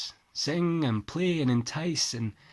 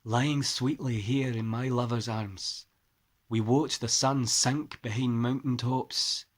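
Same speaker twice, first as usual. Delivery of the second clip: put-on poem read in a light Scottish accent; 5 dB louder than usual. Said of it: "excuse the Scottish accent".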